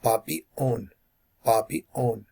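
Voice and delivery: "Bobby", airflow cut completely, then "on"; full airflow stop. Shown as a demonstration. Teacher showing where airflow stops, clean break before "on". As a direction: stop the breath dead between "Bobby" and "on". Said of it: "stops hundred percent".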